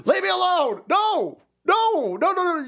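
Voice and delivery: high mock yell; hammed-up panicked shout; imitated scream. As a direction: shriek it like the fleeing driver. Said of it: "is screaming".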